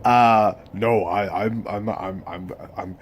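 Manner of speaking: a light Lenny voice, stuttering and worried; Lenny impression. Retelling the audiobook, a worried stammering Lenny. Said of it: "he was like".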